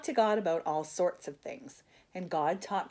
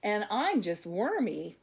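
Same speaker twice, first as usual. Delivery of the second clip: Wormy voice; 3 semitones higher than usual. Acted. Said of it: "said a nearby voice".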